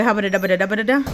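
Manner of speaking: fast, loud babble of nonsense syllables; playful gibberish. Real, not acted. Vlogger goofing at the start, playful gibberish. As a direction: rattle off silly syllables loudly.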